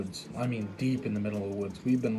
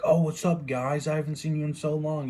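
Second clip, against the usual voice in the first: excited greeting; 5 semitones higher than usual. Retold or imitated. Old friend greets them, surprised.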